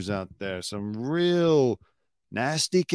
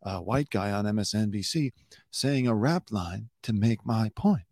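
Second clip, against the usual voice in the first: mocking Ari Melber. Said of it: "he says it like this".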